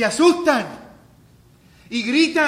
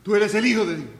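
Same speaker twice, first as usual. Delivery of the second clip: louder cry of "Tú eres el Hijo de Dios"; demon's cry; 5 dB louder than usual. Acted. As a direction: blurt it out as a caught demon. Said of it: "Ese es el grito de alguien". (grito más fuerte de demonio atrapado)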